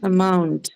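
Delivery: Amount with MOUNT stressed, falling; light A, weight on MOUNT in Amount; stress on second syllable. Shown as a demonstration. Teacher repeats Amount for students, stressing MOUNT. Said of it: "mark it on the second syllable".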